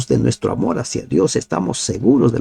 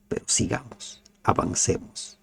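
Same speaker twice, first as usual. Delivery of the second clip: soft urging; 9 dB quieter than usual. Acted. Exhortación íntima del predicador.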